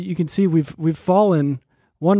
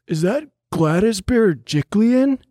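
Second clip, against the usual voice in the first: quoted stranger; 4 semitones higher than usual. Retold or imitated. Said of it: "one of them goes".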